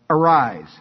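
loud, firm command; one word, loud and falling. Acted. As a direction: order it with authority. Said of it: "He's given a command".

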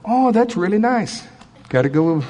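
offhand mock praise; dismissive politeness. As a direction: brush it off lightly. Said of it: "here's what doesn't work".

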